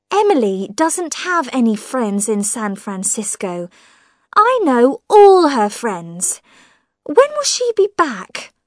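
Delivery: high, probing voice of a suspicious woman; prying sister-in-law. Acted. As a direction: needle him with pointed questions. Millicent voiced in the story.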